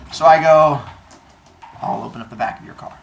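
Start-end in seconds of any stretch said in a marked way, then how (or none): 1.8-2.9 quick, low, softer concession; meek surrender. Retold or imitated. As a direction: mutter it quickly, giving in. Meekly gives in to police.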